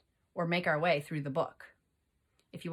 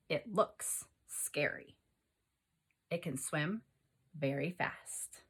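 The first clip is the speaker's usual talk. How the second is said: whispered, slow and hushed; hushed scary aside; spooky whisper; 2 semitones lower, 6 dB quieter than usual. Shown as a demonstration. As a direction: breathe it like a scary secret. Spooky read of shark book.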